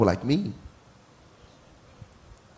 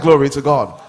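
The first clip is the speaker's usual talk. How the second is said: louder call, demanding a response; loud preaching call; 2 semitones lower, 9 dB louder than usual. Real, not acted. Pastor calls out to the congregation for a response, loud. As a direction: raise it to the congregation again. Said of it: "I said".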